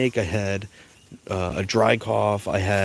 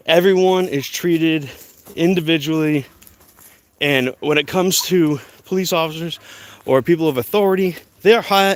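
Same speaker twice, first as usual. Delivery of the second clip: heated; 4 semitones higher than usual. Real, not acted. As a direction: lay down the law, building. Heated rant about police.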